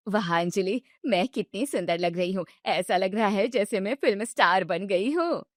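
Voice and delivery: excited about the party; pleased mother-in-law. Acted. Mother-in-law admiring herself.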